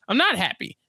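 mildly displeased quote, pitched a bit up; understated mock complaint; retold displeasure. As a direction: make the complaint plainly, first time. Paul's complaint to Jessica retold.

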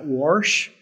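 "Warsh" said with an R slipped in before the sh, rising; imitating mom saying "Warsh" with an intruding R; mom's Southern "Warsh". Joking about how his mom says "Warsh" for Washington, with the Southern R. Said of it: "my mom and I joke about this 'cause she says".

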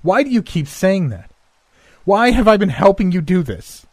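high, loud, desperate screaming; screaming demand. Acted. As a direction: scream it at him, rising to the top. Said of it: "She screamed and demanded".

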